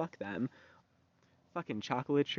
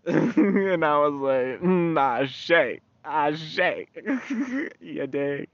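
laughing; 6 semitones higher, 10 dB louder, much slower than usual. Real, not acted. Laughing reaction to sticker.

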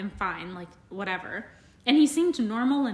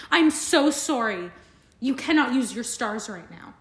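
dramatic apology; 3 dB louder than usual. Retold or imitated. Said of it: "so dramatic".

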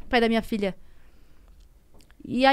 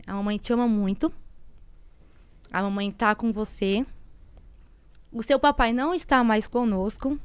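careful, tender breaking of news. Retold or imitated. Mother telling young daughter her father died, careful and tender.

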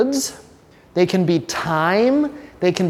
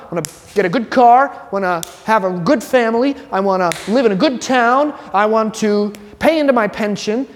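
eager dreamer; 3 semitones higher than usual. Retold or imitated. Voicing typical life goals.

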